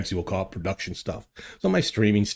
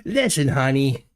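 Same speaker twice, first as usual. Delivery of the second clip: mock Boston accent, a touch higher; 4 semitones higher than usual. Imitating Nova talking to his wife in Boston accent. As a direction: tease him with a Boston husband voice. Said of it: "your accent only comes out in certain conditions".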